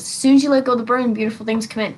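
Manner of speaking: As soon as you let go of the burden rushed out quickly; fast plain repeat. Shown as a demonstration. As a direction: toss off beautiful things come in. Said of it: "That's how that is".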